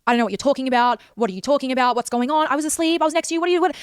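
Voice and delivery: rising, high mock-baffled boyfriend voice; lightly voiced gaslighting boyfriend, pitch climbing; mock innocent denial. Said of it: "He gaslit me to my face".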